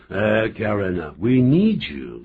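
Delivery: slow, playful plea to stay; hammed-up begging; mock pleading. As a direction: coax a colleague with drawn-out words.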